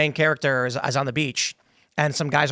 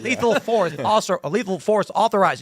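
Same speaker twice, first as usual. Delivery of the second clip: pitched-up robotic cop announcement; Terminator; 5 semitones higher than usual. Acted. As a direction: declare it like a machine enforcer. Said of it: "The Terminator's gonna walk up to you".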